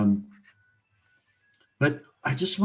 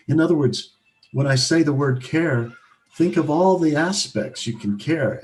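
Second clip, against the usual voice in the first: emphatic; 2 semitones higher, 5 dB louder than usual. Real, not acted. Urging listeners to embrace care.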